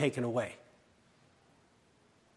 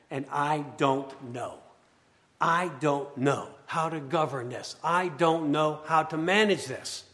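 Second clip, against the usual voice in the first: helpless Mary. Acted. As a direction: let her confess she can't cope. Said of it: "here it is".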